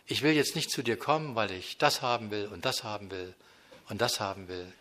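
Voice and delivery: quiet sincere prayer spoken straight to God; intimate prayer. Pretend. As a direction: open your heart quietly to God. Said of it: "und sagt".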